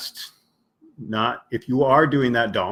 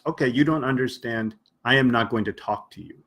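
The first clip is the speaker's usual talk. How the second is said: dismissive brush-off; much faster than usual. Retold or imitated. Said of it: "many people might".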